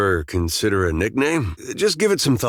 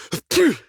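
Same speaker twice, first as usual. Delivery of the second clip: sudden short, high-pitched snort; nose-clearing blast; 3 dB louder than usual. Acted. Clearing a ghost from his nose, sharp snort. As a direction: blow it out hard through the nose.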